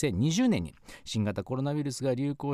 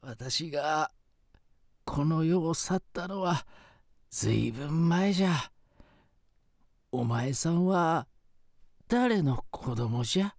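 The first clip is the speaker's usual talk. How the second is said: quavering grateful spirit grandpa; ghost voice. Acted. Ghost grandfather questions woman.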